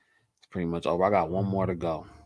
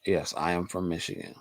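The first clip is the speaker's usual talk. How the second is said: whispered confirmation; 2 semitones lower, 7 dB quieter than usual. Real, not acted. Confirming to viewers where she's from, whispered. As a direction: hush it to a whisper.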